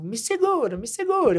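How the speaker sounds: mock the scared girl crying out to be held; little frightened cries. Scared girl on the bike crying to coach, high pleading. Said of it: "dá uns gritinhos".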